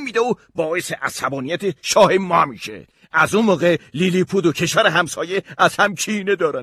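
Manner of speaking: high, loud little-courtier voice; Lilliputian secretary. Acted. Secretary explains the egg feud to Gulliver, high Lilliputian voice. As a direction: put on a high voice, pressing the grievance.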